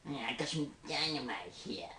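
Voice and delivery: goblin voice. Shown as a demonstration. Goblin in a hat with dynamite, goblin voice. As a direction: give a hint of a goblin. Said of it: "a little goblin wearing a hat".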